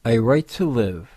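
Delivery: measured poetry reading with weighty pauses between phrases; poem recitation. Acted. Narrator reads Daniel Van Gilder's Ink to listeners, measured poem recitation. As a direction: recite it line by line, letting each phrase stand.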